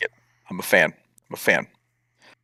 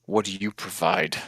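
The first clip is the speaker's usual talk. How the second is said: totem's voice. Acted.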